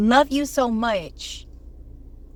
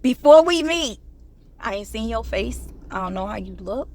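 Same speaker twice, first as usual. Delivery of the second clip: mock dater voice. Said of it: "You say".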